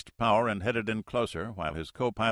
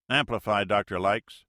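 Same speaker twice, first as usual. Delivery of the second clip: a louder, curt radio order; terse order; 6 dB louder than usual. Acted. Navy pilot orders the freighter to explain, curt and louder. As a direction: clip it like a military order. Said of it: "the voice ordered tersely".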